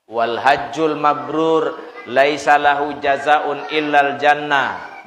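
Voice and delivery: slow, measured Arabic recitation; slow Arabic hadith recital. Acted. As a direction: chant the hadith slowly and solemnly.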